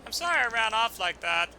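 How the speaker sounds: put-on sheepish small boy apologising; young boy.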